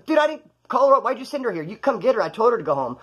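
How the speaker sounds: annoyed retold phone argument; heated phone argument. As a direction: push back, fed up. Arguing on phone.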